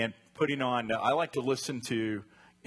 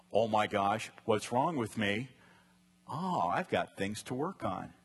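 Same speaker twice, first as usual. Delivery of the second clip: positive calm take. Shown as a demonstration. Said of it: "The positive side of the restless heart is".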